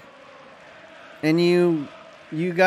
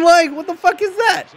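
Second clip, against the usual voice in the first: exasperated shout; 10 semitones higher than usual. Real, not acted. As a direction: blurt it out in disbelief. Ranting at footballers' soft headbutts.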